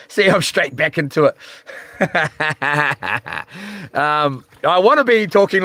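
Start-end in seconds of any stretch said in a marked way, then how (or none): 2.0-3.9 long run of chuckles; real laugh. Real, not acted. Streamer catching himself straight back into it, laughing. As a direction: laugh it out freely, helplessly. Laughs at his own relapse.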